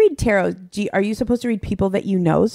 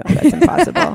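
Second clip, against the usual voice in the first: incredulous exclamation; 10 semitones higher, 6 dB louder than usual. Real, not acted. Short woman rejects "long legs.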